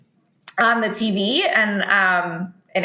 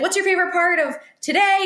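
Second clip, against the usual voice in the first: put-on talking to a child; 11 semitones higher than usual.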